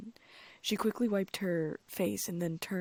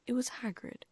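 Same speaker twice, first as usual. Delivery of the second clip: whispered mock quote; 6 semitones higher than usual. Lockhart mimics petrified students.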